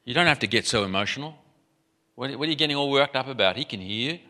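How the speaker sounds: quick, unimpressed reproof; polite disapproval. Acted. Polite society chiding an emotional woman, quick mild reproof. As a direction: chide mildly in a rush, without raising volume. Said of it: "polite society, we might think".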